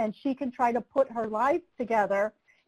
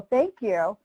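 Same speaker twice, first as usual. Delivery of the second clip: a puzzled, louder echo of her thanks; surprised question; 2 semitones lower, 4 dB louder than usual. Retold or imitated. Prosecutor echoing the victim's thanks, stunned and questioning. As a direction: throw back "Thank you?" in disbelief.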